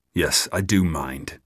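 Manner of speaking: slow, icy reply; coldly. Acted. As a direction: say it flat and cold. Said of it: "said Guy coldly".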